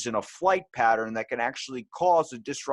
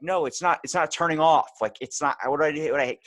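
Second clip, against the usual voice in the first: higher, louder flustered pleading; frantic oven panic; 6 semitones higher, 5 dB louder than usual. Retold or imitated. Panicking at an oven that keeps beeping, flustered. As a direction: fumble with the buttons in a fluster.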